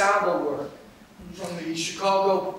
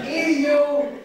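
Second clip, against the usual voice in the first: stage introduction; 5 semitones higher, 3 dB louder than usual. Real, not acted. Introduces the act for applause.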